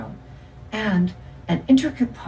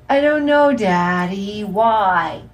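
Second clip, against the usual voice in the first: put-on little girl; 4 semitones higher, 5 dB louder, slower than usual. A narrator's reading. Little girl asking her dad for the joke's answer, high and childlike. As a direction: play a small girl asking Daddy for the punchline. Small daughter answers father's joke.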